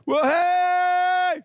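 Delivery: loud, high startled warning; car alert voice. Retold or imitated. Pastor imitates car blind-spot warning, high startled yell. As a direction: yelp it like a car's alarm. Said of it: "my car's like".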